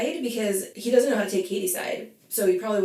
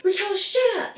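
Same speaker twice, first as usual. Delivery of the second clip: imitating Terry snapping; 13 semitones higher, 4 dB louder than usual. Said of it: "she's like".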